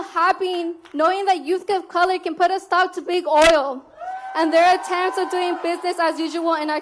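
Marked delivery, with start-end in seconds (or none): 2.9-3.8 forceful rally shout. Real, not acted. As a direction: punch it out to the crowd. Rally speech, crowd cheering.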